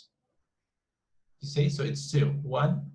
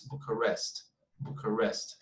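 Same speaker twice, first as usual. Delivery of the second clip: Bucharest as boo-kuh-REST, said softly; stress on last syllable; 3 semitones lower, 6 dB quieter than usual. Shown as a demonstration. Teacher confirming the common pronunciation, final syllable stressed. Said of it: "In that case".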